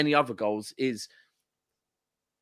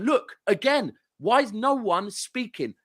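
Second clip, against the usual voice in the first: higher, drawn-out complaint, only half shouted; retold exasperated call; 6 semitones higher, slower than usual. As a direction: re-enact pleading with the team. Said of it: "I started shouting at the top of my voice".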